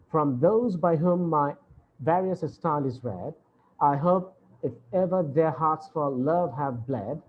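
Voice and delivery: measured verse reading with pauses at line ends; poem recitation. Acted. Teacher reading the sonnet's second quatrain, measured recitation.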